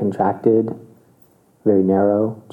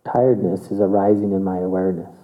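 1 detached observing tone. Shown as a demonstration. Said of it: "Feel the difference there".

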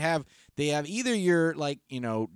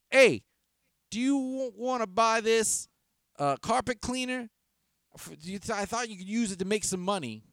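high-pitched street seller pitch; stranger hawking goods; 9 semitones higher, 3 dB louder than usual. Retold or imitated. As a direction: imitate a stranger making a hopeful sales pitch. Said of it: "a gentleman came up to me and said".

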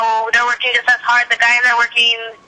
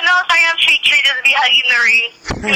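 playful mock refusal; 3 semitones higher than usual. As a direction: brush them off playfully. Acting out turning a suitor down.

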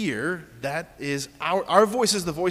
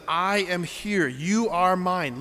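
slow, measured declaration, a little higher; declarative God; 3 semitones higher, slower than usual. Acted. Preacher voicing God's words to listeners, declarative. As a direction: state it as a firm, loving promise. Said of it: "it's declarative. He says things like".

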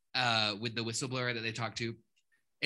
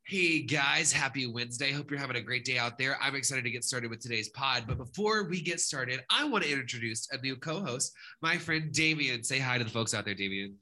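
hyped-up podcast announcer. Acted. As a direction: put on a showy host voice. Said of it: "You put on this, like, announcer voice all of a sudden".

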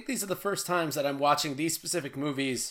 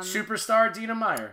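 mock hype; 5 semitones higher than usual. Real, not acted. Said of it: "the very famous".

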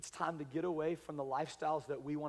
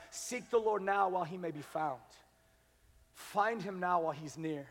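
2 calm softer repeat. Acted. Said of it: "repeated softer".

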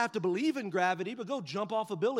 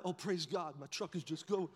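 quiet relief; 3 semitones lower, 5 dB quieter than usual. Retold or imitated. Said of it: "I'm like".

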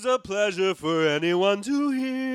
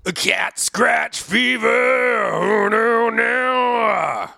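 rock shout; 5 semitones lower, slower than usual. Acted.

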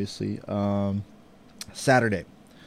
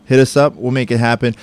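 louder, higher, selling merch; promo shout-out; 4 semitones higher, 7 dB louder than usual. Acted. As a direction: hype up the listeners. Promo call to listeners.

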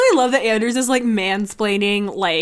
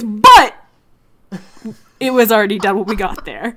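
Stephen A Smith voice; 5 dB louder than usual. Retold or imitated. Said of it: "fucking Stephen A voice".

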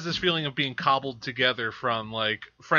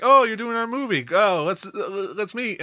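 high, bright mock enthusiasm; hammed-up excited greeting; mock gushing; 8 semitones higher, 4 dB louder than usual. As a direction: gush like an eager fan meeting the filmmakers. Mocking excited filmmakers' greeting.

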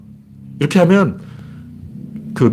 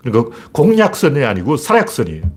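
ordinary delivery

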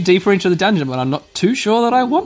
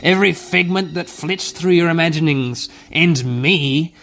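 ancient voice. Acted. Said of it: "The ancient voice riposts".

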